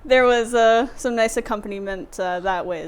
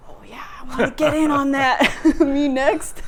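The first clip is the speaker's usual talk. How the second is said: quick, higher-pitched eager imitation; eagerly jumping in, voiced with amusement; lighting up; 4 semitones higher than usual. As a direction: imitate an eager onlooker wanting in. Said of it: "lighting up".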